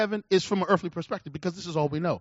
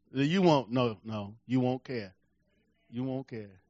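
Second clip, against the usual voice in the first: low, soft, intimate assurance; hushed; 10 semitones lower, 8 dB quieter than usual. Real, not acted. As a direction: drop it to almost nothing. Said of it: "preacher drops voice".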